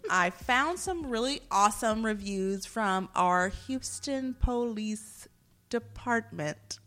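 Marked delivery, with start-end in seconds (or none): 3.1-6.8 slow, drawn-out official announcement; affected announcing. Real, not acted. Host introducing police reviews to co-hosts, affected announcing. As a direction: spell it out with measured mock ceremony. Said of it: "Why are you talking like that?".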